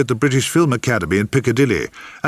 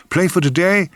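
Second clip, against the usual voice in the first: high, hopeful stab at a guess; wild guessing; 8 semitones higher than usual. A narrator's reading. Narrator guesses where he met the woman, wildly. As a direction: throw out a wild guess, pitched up. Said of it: "I found myself guessing wildly".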